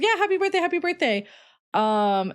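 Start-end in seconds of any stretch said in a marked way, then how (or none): 0.0-1.3 very high, fluttery yeahs; mock gushing waitress. Imitating the waitress fawning over the birthday boy, very high. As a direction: squeak it out like an overeager waitress. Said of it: "Then she starts going".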